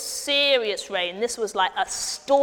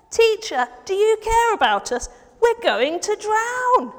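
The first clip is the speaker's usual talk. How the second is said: a touch less panicked, higher plea; milder plea; 8 semitones higher, 4 dB louder than usual. Acted. Friend asking Jesus again for help, milder worried plea. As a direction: ask for help, still worried but calmer. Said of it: "the friend went to find Jesus and said".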